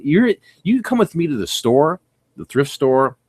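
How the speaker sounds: ordinary talk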